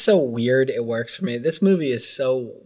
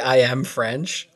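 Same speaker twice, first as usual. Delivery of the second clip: snooty waiter; much slower than usual. Retold or imitated. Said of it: "I would say".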